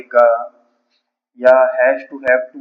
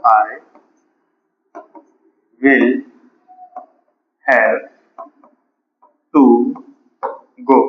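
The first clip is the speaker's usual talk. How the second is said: long pauses between every word; word-by-word dictation; 3 dB louder, much slower than usual. Shown as a demonstration. Teacher writing out "I will have to go" for students, word by word. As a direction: dictate it one isolated word at a time.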